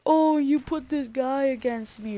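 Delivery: mildly hammed-up outrage; retold freak-out. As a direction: imitate an upset girl's accusation. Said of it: "She's, like, freaking out".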